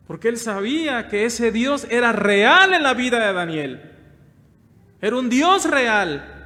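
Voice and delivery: full-force preaching. Acted. Pastor preaching to the brothers, loud and rising. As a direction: preach it out to the whole congregation.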